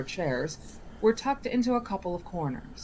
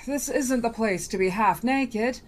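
put-on genie boy voice; 6 semitones higher, 3 dB louder than usual.

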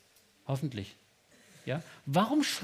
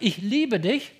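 rising, louder declaration of love; declared love; 3 semitones higher, 4 dB louder, slower than usual. Shown as a demonstration. Preacher urges the listener to tell God this, boldly. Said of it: "zu dem Gott sagt".

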